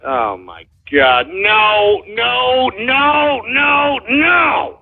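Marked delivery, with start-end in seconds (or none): 1.3-4.8 rising protest. Real, not acted. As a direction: refuse harder every time. Disgusted by caller's remark.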